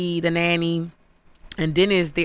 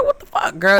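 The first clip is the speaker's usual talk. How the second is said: shocked shriek; 3 semitones higher, 4 dB louder than usual. Retold or imitated. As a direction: squeal it at the screen. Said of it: "I was like".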